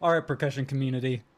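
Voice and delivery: mock episode announcer, projected; mock announcement. Acted public address to percussionists.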